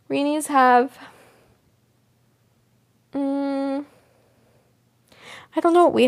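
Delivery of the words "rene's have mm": whisper. Real, not acted. Unvoiced whisper, pondering.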